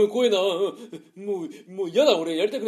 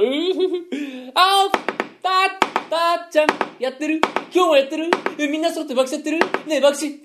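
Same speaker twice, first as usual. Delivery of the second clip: higher and louder sing-song call; cheerful calling out; 7 semitones higher, 3 dB louder than usual. Acted. Man calling out to Tatchan at the gambling den. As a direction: call out brightly to a friend.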